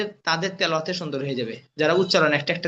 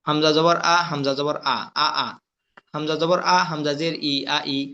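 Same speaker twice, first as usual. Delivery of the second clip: spelling drill recitation; 2 semitones lower than usual. Shown as a demonstration. Teacher drilling Arabic letters with vowel marks, chanted recitation. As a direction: recite it as a steady monotone drill.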